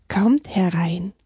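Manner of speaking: slow, soothing beaver's invitation; calm welcome. Acted. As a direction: welcome the little guests slowly. (ruhig einladend)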